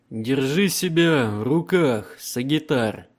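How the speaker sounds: slow, loud, commanding Emperor. Acted. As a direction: speak as an unshakable emperor. Emperor voiced in audiobook.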